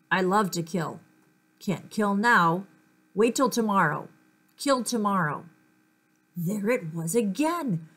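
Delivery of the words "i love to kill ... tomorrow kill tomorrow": murderous thoughts. Acted. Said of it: "sounded like somebody was plotting a murder".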